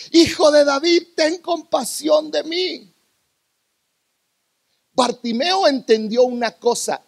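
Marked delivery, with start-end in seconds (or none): 0.1-2.9 pleading cry. Retold or imitated. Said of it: "él gritó aún más fuerte". (súplica en voz alzada, que se alarga al final)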